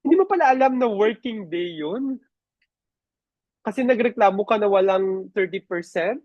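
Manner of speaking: snide rising HR question; sarcastic questioning. Acted. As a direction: feign disbelief to shame the employee. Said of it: "So, avoid that".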